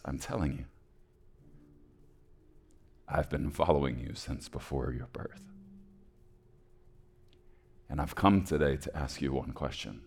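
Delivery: soft, low and measured; quiet, unhurried reassurance from an old man; calm old man. Acted. Old man offers the jailed orphan a way out, soft and calm.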